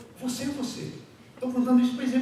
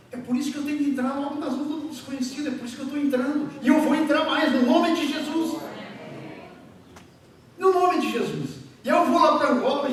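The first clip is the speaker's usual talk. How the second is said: raised preacher's voice, rushing, then loud; fervent preaching; 6 semitones higher, 5 dB louder than usual. Real, not acted. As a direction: drive the declaration home to the congregation.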